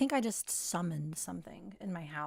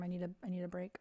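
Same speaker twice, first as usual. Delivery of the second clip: whisper; 3 semitones lower, 7 dB quieter, faster than usual. Real, not acted. Whispers aside.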